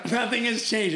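high, loud, laughing it out. Real, not acted. Laughing to the host about still being over the top. Laughs at himself, repeats line.

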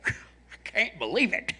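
high, slow Southern redneck twang; redneck accent. Retold or imitated. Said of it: "the weird redneck stuff".

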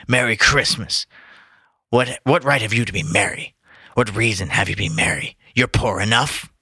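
a hint of a Batman growl; lightly voiced grumpy Scrooge; gruff Scrooge voice. Reader trying a Scrooge voice, hint of Batman. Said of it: "Is he Batman?".

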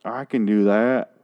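a hint of Forrest Gump, slow and simple; drawn-out, lightly voiced Forrest Gump; understated Gump voice; Forrest Gump impression. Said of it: "I was doing Forrest Gump".

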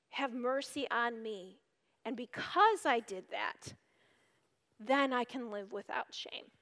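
soft, low, repentant prayer; hushed confession. Acted. Confessing to God, soft and repentant. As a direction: pray it quietly, sorry and humble.

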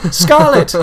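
loud, high call after her. A narrator's reading. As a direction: call her back across the graves. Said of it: "Nobody called after her".

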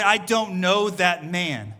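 slow, drawn-out "don't know"; acted emphatic denial. Peter denying Jesus by the fire, "know" slow and weighty. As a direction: deny it deliberately, stretching "I don't know that man".

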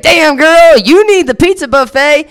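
high, loud mock bro voice; mocking guy. Bar customer mocking her weight, hammed-up high voice. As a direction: ham up the rude bar guy. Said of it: "and he's like".

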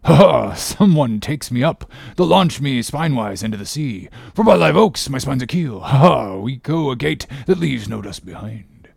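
rollicking sailor's voice, rushed with bursts of laughter-like cries; hearty seaman revelling in the speed; exultant Stubb. A narrator's reading. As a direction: crow it like a thrilled whaleman.

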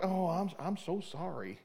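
soft, slow, fading apology; hushed, sheepish I'm so sorry; meek apology. Retold or imitated. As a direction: grovel softly, slowing down. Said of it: "so I was like".

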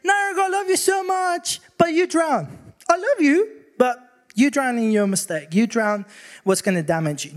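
high, half-shouted mock father; mock detached father. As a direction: call it out high and mock-caring from the poolside. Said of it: "He could literally stay outside of the pool and say".

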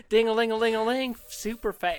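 high jingling southern patter; Phantom Bell man. Pretend. Ghost bellman running in bell shoes, in a high southern accent. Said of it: "with a southern gay debonair accent".

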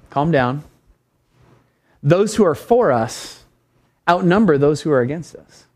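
understated prophet steadying his servant; lightly acted unruffled master; mild calm reassurance.

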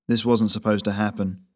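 flat, toneless admission. Acted. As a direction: say it with no colour at all. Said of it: "Meadows said flatly".

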